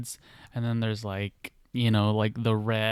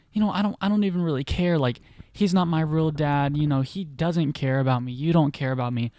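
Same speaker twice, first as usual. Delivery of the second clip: higher, fast, heated retold outburst; angry; 4 semitones higher, 4 dB louder, faster than usual. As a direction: snap back quickly, hurt and angry. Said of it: "Corey starts to get angry".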